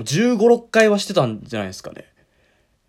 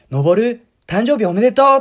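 お祝いの声真似; 7 semitones higher, 7 dB louder than usual. Retold or imitated. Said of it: "そしたらお母さんが、".

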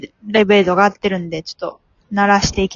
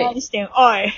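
gruff senior's catchphrase; faster than usual. Retold or imitated. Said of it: "おい、おいっていうやつ".

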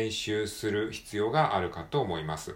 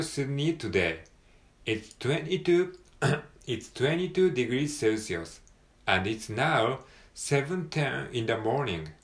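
higher, slow, louder cabin announcement; flight purser announcement; 4 semitones higher, 3 dB louder, much slower than usual. Acted. Teacher reading the head purser's welcome in announcer voice.

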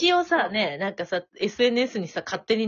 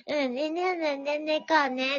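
put-on little girl's eager reply; 7 semitones higher, slower than usual. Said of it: "って言ってたから".

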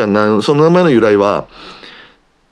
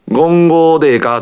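put-on light old Kansai grandma asking, a little higher; imitating grandma; 7 semitones higher, 3 dB louder than usual. Grandma asks if five cups is fine, lightly imitated. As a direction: lightly play grandma checking the rice. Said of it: "とかって言うんですよ".

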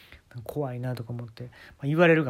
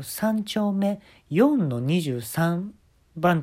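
teasing slow; 5 semitones higher, 3 dB louder, much slower than usual. Acted. Joking address reveal.

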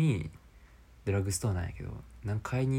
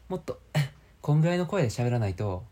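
louder, projecting so the voice carries; louder projected voice; 4 semitones higher, 6 dB louder than usual. Shown as a demonstration. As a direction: push the voice out to carry.

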